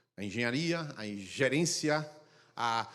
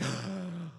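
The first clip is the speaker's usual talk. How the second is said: soft awed gasp; 6 dB quieter than usual. Retold or imitated. Mocking awed churchgoer.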